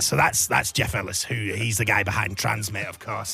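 low-pitched impression of a Mancunian festival promoter; Jeff Ellis. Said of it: "stop doing this impression".

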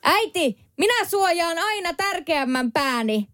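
high, slow, cocky mock yell; teen shouting comeback. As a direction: fling the last word back like a movie hero. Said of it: "Niin mä huusin meidän äitille".

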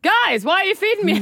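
high silly voice for the sphincter. Pretend. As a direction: voice the body part like a whiny little character. Voicing the open sphincter.

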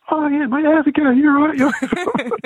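very high imitated London accent. Famous punk greeting an old acquaintance, imitated London accent. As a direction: mimic a friendly London greeting, pitched right up. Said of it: "he had a really London accent".

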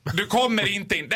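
lightly imitated doorman refusal; bouncer. Bouncer refusing a guest, lightly imitated officiousness. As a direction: turn them away like a bouncer. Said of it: "nu lät du precis som en av vakterna".

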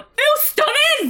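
high, slow, drawn-out "Ooh, stunning!"; mock swooning girl. Quoting the show's girl admiring a Negroni, high and slow. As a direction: coo it like an awestruck fan. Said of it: "the other girl going".

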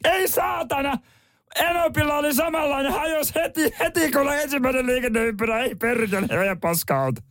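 very high-pitched shouty character voice; put-on tepoilmies voice pushed way up high. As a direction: screech it out in a sustained high comic voice. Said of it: "On mulla, on mulla semmonen tepoilmies".

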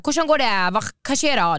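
imitating a Bergen speaker's Norwegian. Imitating a Bergen Norwegian speaker to her friend. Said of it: "Kommer du från Bergen så är det så här".

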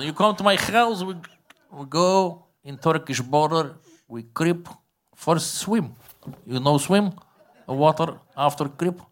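conspiratorial foreign craftsman laying out his plan; Bulgarian bagpipe maker. Retold or imitated. Bagpipe maker explains border raid to customer, thick accent.

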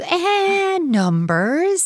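put-on bored, offhand child answer with a pause; mock bored kid; vague child. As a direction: shrug it off like a kid.

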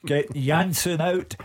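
high, drawn-out mock bellow; imitated bellow. Pundit retelling a fan's phone-in rant, mock bellowing. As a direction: imitate an irate caller, slow and high.

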